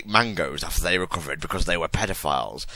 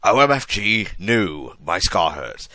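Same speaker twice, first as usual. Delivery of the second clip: hammy stage actor; 4 dB louder, slower than usual. Acted. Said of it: "He started to scream".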